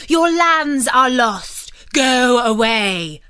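loud, slow, harsh rebuke; stern dismissal. Acted. Monk ordering the ruined knight out, loud and stern. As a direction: drive him off with cold scorn.

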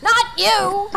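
sharp loud rebuke; loud exclamation. Real, not acted. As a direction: snap at a friend. Rebuking friend.

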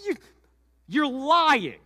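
high, loud accusing yell; angry shout. Acted. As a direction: throw the accusation at her. Joseph yelling accusation.

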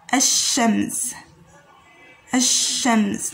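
Ash-Shams with the lam merged into a doubled sh; Ash-Shams, careful teacher model; Arabic word demo. Shown as a demonstration. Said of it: "which means the sun".

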